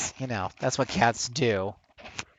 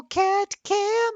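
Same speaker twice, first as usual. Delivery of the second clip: high, loud game-show reveal; bursting with hype for the cat cam; excited announcement; 7 dB louder than usual. Acted. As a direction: shout it like the big prize.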